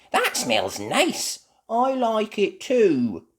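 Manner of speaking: slow, content; mildly pleased; pleased child. Acted. Children enjoy smell.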